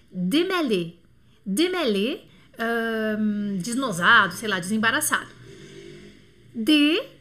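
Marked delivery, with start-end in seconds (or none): 0.1-2.2 "Démêler" with closed é at both ends, open è in the middle. Shown as a demonstration. Teacher repeating the example word for students, "Démêler" with open middle vowel. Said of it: "ele dá esse som de E". 6.5-7.1 "Démêler" broken into dé, mè, lé with long pauses, louder; syllable-by-syllable French. Shown as a demonstration. Teacher isolating each E for students, "Démêler" in loud separated syllables. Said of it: "o primeiro e o último com E".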